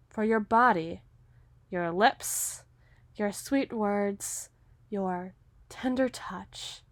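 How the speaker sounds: soft, slow, savoring murmur; lecherous murmur. Acted. Hunter leering at his captive in a soft, slow murmur. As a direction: linger over each word, leering.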